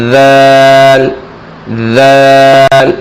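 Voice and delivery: ذال with the tongue between the teeth, a voiced th; tongue tip out for ذال. Shown as a demonstration. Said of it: "تھوڑی سی زبان باہر نکال کر".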